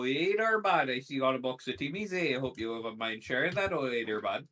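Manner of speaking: put-on a mild, friendly Canadian accent. Greeting a stranger with Timmy's, light Canadian accent. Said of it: "the most I've gone into a Canadian accent".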